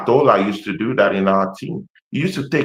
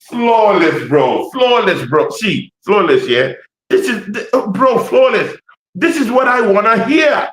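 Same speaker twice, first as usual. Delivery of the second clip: excited African accent; 7 semitones higher than usual. Real, not acted. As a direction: let your African accent burst through with glee. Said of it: "my African accent used to, you know, just, uh, blip".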